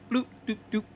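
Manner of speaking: little sing-song procedure sound effects; playful needle-stick noises. Retold or imitated. Imitates quick successful needle stick.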